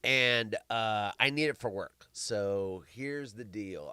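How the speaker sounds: hoarse, losing voice. Real, not acted. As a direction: speak through a failing, hoarse voice. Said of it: "I'm losing my voice".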